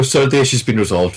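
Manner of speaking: quick, businesslike cut-off; brisk agent quote. Retold or imitated. Agent closing a call, brisk delivery. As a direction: rattle it off to end the call.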